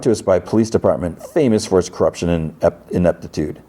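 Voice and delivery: lightly voiced courtroom lawyer; a hint of formal argument to the judge; defense attorney. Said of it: "Thorne's attorney's turn".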